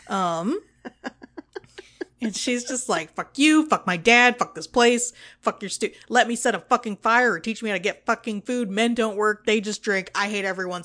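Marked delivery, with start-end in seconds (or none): 3.1-10.8 mock hateful rant. Brenna hating everyone's guts, mock angry rant. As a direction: imitate someone sick of everybody, easing off. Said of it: "she hates everyone's guts".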